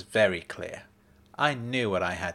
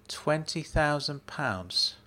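slow flat repeat; 5 semitones higher, slower than usual. Acted. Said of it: "I repeated".

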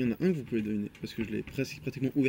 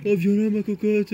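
lightly voiced drunk man, higher pitch; drunk guy impression; 6 semitones higher, slower than usual. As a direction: do a half-hearted imitation of a tipsy guy. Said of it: "C'était imiter plusieurs fois un mec ivre".

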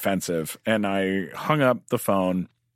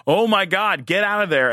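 higher, louder alarmed call; urgent warning; 10 semitones higher, 5 dB louder than usual. Retold or imitated. A crew guy sees the flames and yells him out, alarmed.

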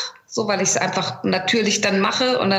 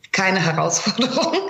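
laughing. Real, not acted. Admits the role is no challenge.

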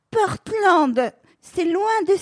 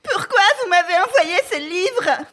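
bouche pâteuse, mots empâtés; voix pâteuse; 3 semitones higher than usual. Acted. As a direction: articule mollement, bouche sèche. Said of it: "Dis-je d'une voix pâteuse". (Anna ivre au téléphone, voix pâteuse)

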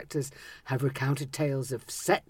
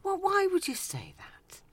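whisper; 13 semitones higher than usual. Real, not acted. Mock horror, hushed.

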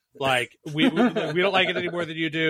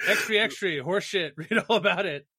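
newsboy call; 5 semitones higher than usual. Acted.

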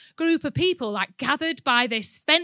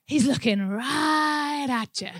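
hushed, imitated American bystander; generic American accent; 3 dB quieter, slower than usual. American guy to the couple at the fence, soft imitated accent. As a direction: put on an American guy, softly pointing something out. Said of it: "guy with the generic American accent comes".

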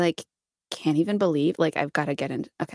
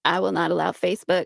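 accidental Bill Clinton. Acted. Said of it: "That's Bill Clinton right there".

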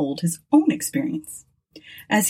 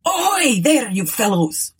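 roared; 5 semitones higher than usual. A narrator's reading. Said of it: "roared the skipper to the watch on deck".

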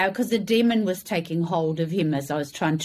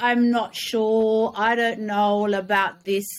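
hesitant excuses; 4 semitones higher than usual. Retold or imitated. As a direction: mimic someone dithering over giving up. Imitates his hesitant excuses.

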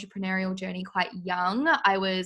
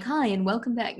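news reporter voice; 2 semitones higher than usual. Retold or imitated. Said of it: "my news reporter voice".

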